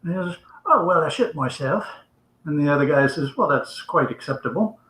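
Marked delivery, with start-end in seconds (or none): 0.6-1.8 understated mock English accent; English gentleman. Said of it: "It was all in the accent". 3.4-4.8 softer mock English accent; politely understated English gentleman's reply. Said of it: "It was all in the accent".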